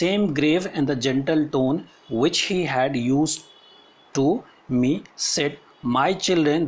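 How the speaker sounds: slow, deliberate classroom reading; measured textbook reading with pauses; read-aloud text. Acted. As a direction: read it out phrase by phrase for students. Reads the story text aloud.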